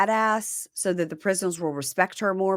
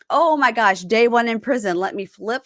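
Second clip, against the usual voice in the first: higher, louder mock-excited new inmate; mock eagerness; 3 semitones higher, 4 dB louder than usual. Podcaster mocking inmates told to read the handbook, mock eagerness. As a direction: imitate an over-keen prisoner.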